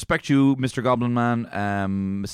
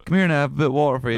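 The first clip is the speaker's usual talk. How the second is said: higher, fast goblin voice; 5 semitones higher, 5 dB louder, faster than usual. Pretend. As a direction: coax it like a sly goblin. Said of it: "You're very good at orc, orc and goblin voices".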